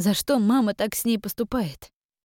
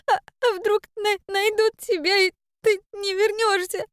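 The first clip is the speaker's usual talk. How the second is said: put-on high, halting girl's voice, slowly stuttering through tears; a frightened child catching her breath between words; girl stammers her fears to her mother after crying; stammering after sobbing; 13 semitones higher, 3 dB louder than usual. A narrator's reading. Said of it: "заикаясь после надрывного плача, прошептала".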